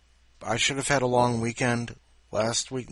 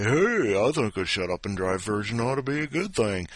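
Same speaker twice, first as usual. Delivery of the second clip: mock viewer comment.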